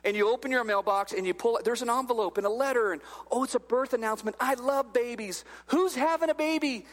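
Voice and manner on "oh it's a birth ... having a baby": lightly acted baby-news excitement, lifting on the question; mildly delighted. Reader opening a birth announcement from the mailbox, mock delight. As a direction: coo over happy news, a little playfully.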